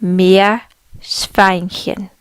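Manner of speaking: Meerschweinchen drawn out very slowly, syllable by syllable; slow careful Meerschweinchen. Shown as a demonstration. Teacher breaking down a long word for learners, very slow. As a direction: spell out Meerschweinchen slowly for beginners. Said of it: "It's a bit of a mouthful".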